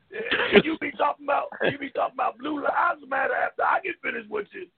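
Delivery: heated answer with shouted bursts; angry. Real, not acted. Answering the cohost who asked why he's angry, heated. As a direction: let the anger boil over. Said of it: "Ike, why are you so angry?".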